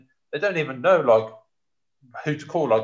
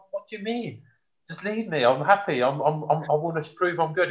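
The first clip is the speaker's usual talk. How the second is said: put-on higher, eager young player brushing off advice; a young player protesting, higher and keen; young eager self; 3 semitones higher than usual. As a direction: play your cocky younger self, pitched up. Voicing his eager younger self.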